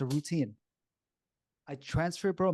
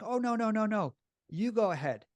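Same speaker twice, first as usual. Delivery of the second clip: mock polite insisting; 6 semitones higher than usual. Strangers insisting politely at door.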